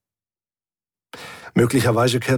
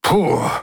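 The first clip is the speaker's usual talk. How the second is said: high puffed-out phew; relieved phew; 9 semitones higher than usual. A narrator's reading. Hubert back on the bridge after the swindle, relieved phew. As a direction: blow out the tension. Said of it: "machte Hubert".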